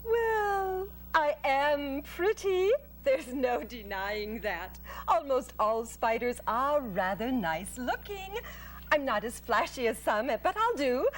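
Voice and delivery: gentle, proud spider lady voice; a pleased little spider showing off; Charlotte the spider. Acted.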